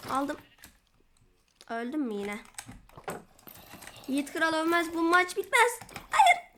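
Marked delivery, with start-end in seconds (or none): 4.1-5.8 half-joking defiant shout, crying out; mock heroic battle cry. Gamer hams up a last stand, mock heroic shout. 6.1-6.5 high anguished scream of no. Real, not acted. Gamer dying in the match, high scream.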